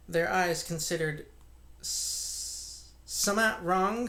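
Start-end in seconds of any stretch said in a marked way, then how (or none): 1.8-4.1 higher, slow countryman asking what's wrong; a lightly voiced worried innkeeper; uneasy rustic question. Innkeeper at the parlor door, lightly voiced and uneasy. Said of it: "said Hall".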